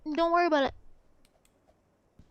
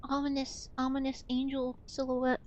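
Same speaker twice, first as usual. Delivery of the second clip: low, soft mock ominous voice; spooky narrator; 4 semitones lower, 6 dB quieter than usual. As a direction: intone it like a creepy trailer.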